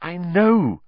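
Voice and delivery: high, breathless agreement; winded, emphatic reply; panting. A narrator's reading. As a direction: pant it out urgently. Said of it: "Harry panted".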